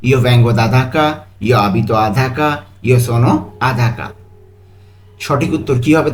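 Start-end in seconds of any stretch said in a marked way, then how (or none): 0.1-4.1 Italian options read slowly and carefully; slow model reading. Shown as a demonstration. Teacher repeating the Italian options, slow and careful. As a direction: read them out slowly for the class. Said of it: "যে কোনো তিনটি একটির হতে পারে।".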